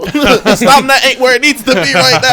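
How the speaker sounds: laughing through the words. Real, not acted. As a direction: chuckle as you admit it. Joking about his fitness.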